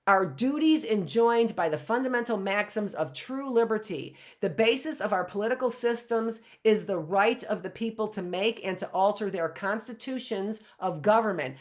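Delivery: stately reading from a historic speech; formal speech reading. Acted. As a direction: read it like a solemn founding text. Reads address excerpt.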